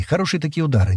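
plain reading voice

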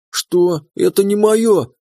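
high, startled denial; shocked protest. A narrator's reading. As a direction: deny it in sudden alarm. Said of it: "протестовала девушка". (высокий испуганный протест)

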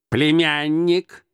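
stern, drawn-out rebuttal; slow, serious uncle cutting in; серьёзно. A narrator's reading. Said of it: "возразил дядя серьёзно". (серьёзно, с расстановкой)

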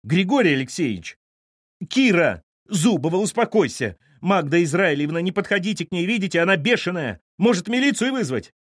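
high, loud frantic cries; panicked shouting. Acted. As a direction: yell for help at a brawl. (панические крики)

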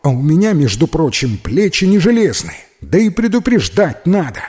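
put-on a kid scolding his clumsy friend; grumbling boy. Петька ворчит на упавшего Миху, громким мальчишеским голосом.

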